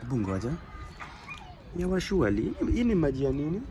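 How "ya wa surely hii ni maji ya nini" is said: rising, higher-pitched Swahili exclamation of dismay; exasperated exclamation. Real, not acted. Vlogger reacting to water on his bag, exasperated. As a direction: groan it out at the wet bag.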